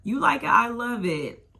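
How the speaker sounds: put-on shrieked okay girl, way up high; high squeal. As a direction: squeal it high and loud, cheering her on. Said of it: "So I was like".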